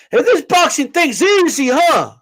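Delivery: mock his smug tone, lightly; cocky mocking imitation. Mocking a cocky champ for dismissing boxing, a smug taunt. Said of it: "He's like".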